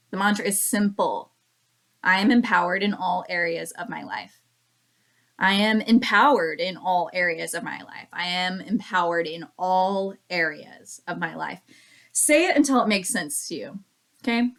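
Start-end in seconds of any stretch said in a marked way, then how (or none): 2.0-4.4 am leaned on, rest of the mantra even; I AM empowered, weight on am; stress on am. Shown as a demonstration. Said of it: "emphasis on different words". 5.4-8.1 empowered carries the weight, falling after; I am EMPOWERED in all areas; stress on empowered. Shown as a demonstration. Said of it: "emphasis on different words". 8.1-11.6 all lifted and lingered on; in ALL areas of my life; stress on all. Shown as a demonstration. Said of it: "emphasis on different words".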